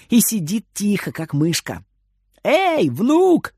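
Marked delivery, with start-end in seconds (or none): 2.4-3.5 high call across the house. Acted. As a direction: call out for the hiding boy. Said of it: "кричит бабушка".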